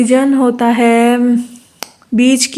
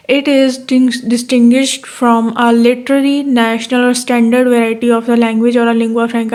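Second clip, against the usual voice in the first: reading the definition slowly, word by word; slow dictation; much slower than usual. Shown as a demonstration. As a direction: dictate it so students can write. Dictates English definition from text. (धीरे-धीरे लिखवाते हुए पढ़ना)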